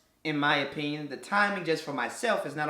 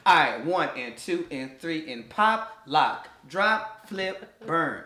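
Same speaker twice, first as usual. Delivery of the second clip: dance instructor counting; 2 semitones lower, slower than usual. Retold or imitated. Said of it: "Darren's dance moves".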